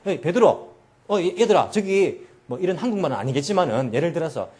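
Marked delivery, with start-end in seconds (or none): 0.1-2.3 louder, easy, everyday call to the fishermen; Jesus hollering casually to his disciples; casual friendly voice. Shown as a demonstration. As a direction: talk like one of the guys on the boat. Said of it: "그들과 똑같은 목소리로".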